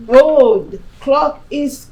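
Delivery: high, loud, fretting parent; nagging mother voice. Retold or imitated. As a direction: sing it out like an anxious mum. Mother pressuring daughter to marry.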